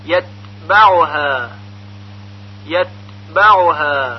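یتبعها with an unbounced, whispered release of ت; slow, long final aa; te without qalqalah. Shown as a demonstration. Teacher showing learners a still te, no echo in یتبعها. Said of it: "حرف ت مثل".

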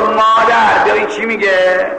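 milder imitation of the cry; mock call. Preacher imagining our girls calling mother, half-hearted mock call. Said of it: "اگر از دخترای ما بودن میگفت".

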